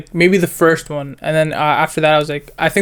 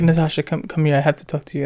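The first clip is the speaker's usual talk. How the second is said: a hushed, softer imitation of the dad calling her over; quiet retold aside; 6 dB quieter than usual. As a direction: drop the voice as if pulling someone aside privately. Dad quietly pulls daughter aside.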